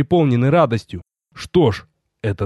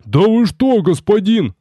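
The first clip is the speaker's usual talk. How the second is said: much higher, louder horrified cry; roar like a wounded beast; 8 semitones higher, 3 dB louder, slower than usual. Acted. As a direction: bellow in protest. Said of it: "взревел Рикар раненым зверем".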